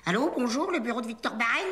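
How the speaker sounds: working-class Parigot phone greeting; thick Parisian accent. Acted. Trainee assistant practising the phone greeting for the boss, thick Parisian accent. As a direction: answer in a heavy Parigot twang. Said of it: "t'as un accent parigot à décorner les bœufs".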